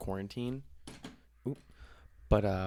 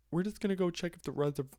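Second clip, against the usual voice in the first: mock parent voice; 9 semitones higher than usual. Parents' excuse mocked.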